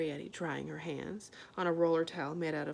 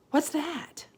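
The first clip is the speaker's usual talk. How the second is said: higher, alarmed; startled; 8 semitones higher, 5 dB louder than usual. A narrator's reading. Homily hearing a noise, startled.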